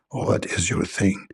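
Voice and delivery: a cranky angel snapping down the line; gruff angel Jibreel. Acted. Angel Jibreel answering caller, gruff and annoyed.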